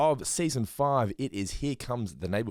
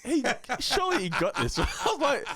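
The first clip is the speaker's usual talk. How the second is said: amused disbelief; 3 dB louder than usual. Retold or imitated. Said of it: "I'm like".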